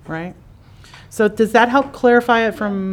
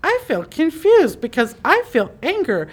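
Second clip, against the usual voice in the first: voicing the empathic center; 8 semitones higher than usual. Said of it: "your empathic center goes".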